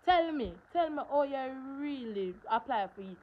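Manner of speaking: high, loud urgent asking; eager plea. Retold or imitated. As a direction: press your friends to tell you. Begging friends for help.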